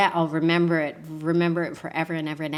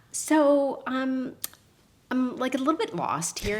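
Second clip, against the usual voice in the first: higher, sheepish admission; lightly voiced lost young woman, pitched up; sheepish lost tourist; 7 semitones higher, 3 dB louder than usual. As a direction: sound small and embarrassed. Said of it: "and I'm like".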